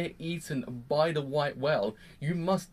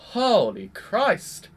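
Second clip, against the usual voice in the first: slow, loud, higher cry of disbelief; shocked shout; 6 semitones higher, 8 dB louder, much slower than usual. Retold or imitated. Fan watching Amelia die, shocked shout. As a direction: shout it out in horror. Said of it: "I was like".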